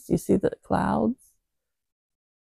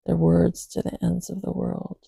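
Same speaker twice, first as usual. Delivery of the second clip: scripture reading. Acted. Reads psalm verses aloud.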